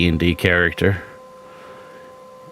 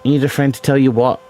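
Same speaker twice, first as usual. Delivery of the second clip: fast, challenging, raised; 5 semitones higher, much faster than usual. Real, not acted. Repeating challenge heatedly.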